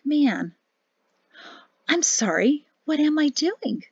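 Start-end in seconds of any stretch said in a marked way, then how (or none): 1.9-3.8 a touch of sweet, knowing teasing; innocent-sounding but sly; mildly sweet, sly question; sweetly. A narrator's reading. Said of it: "she asked sweetly".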